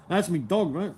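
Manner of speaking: laughing Bogan accent. Shown as a demonstration. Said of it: "continues Bogan bit".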